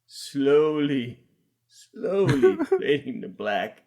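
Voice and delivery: slowly, stretching each "slowly"; drawn-out stage direction. Acted. Reading the endless fade to black, slow and drawn out. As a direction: repeat it like an endless fade, deadpan.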